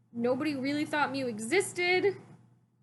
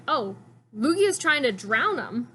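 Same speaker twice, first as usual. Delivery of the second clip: mock alarm; 5 dB louder, slower than usual. Her own alarmed reaction retold.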